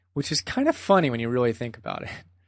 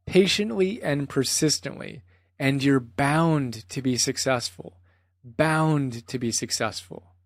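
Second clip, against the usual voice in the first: rhythmic, deliberate repetition of a teacher's mantra; lightly imitated teacher's cadence in your own voice; measured mantra. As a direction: recite it firmly, slowing towards the end. Repeats the mantra after imitating Goenka.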